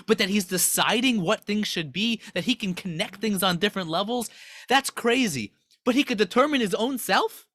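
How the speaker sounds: acted incredulous objection, rising in pitch; mock outraged screaming. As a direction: imitate scandalized angels, building to disbelief. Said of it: "angels start screaming and they go".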